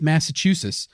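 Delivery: "Massachusetts" with the final t sound lost; mushy "Massachusetts", ending in "-chusus"; slurred slip. Real, not acted. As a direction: let "Massachusetts" slur into "Massachusus". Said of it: "I don't know why I said it like that".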